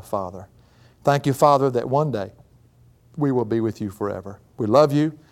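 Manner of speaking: real, earnest closing prayer; public prayer. Real, not acted. Preacher thanking God at the end of class, prayerful. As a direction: lead the congregation in thankful prayer.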